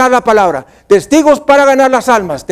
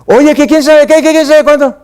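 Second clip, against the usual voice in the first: mock yelling; 5 semitones higher than usual. Preacher imitating someone yelling at him, mock angry. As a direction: play the shouting accuser. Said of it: "alguien me grita".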